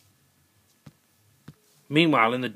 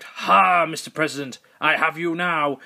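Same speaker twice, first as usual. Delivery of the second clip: higher gloating villain voice; villain snake; 4 semitones higher than usual. Acted. Snake cornering the president, gloating villain. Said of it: "Mister Snake Man arrived".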